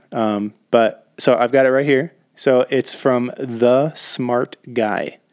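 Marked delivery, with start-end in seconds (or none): 2.3-5.2 big voice guy. Acted. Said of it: "I'm gonna try to be big voice guy".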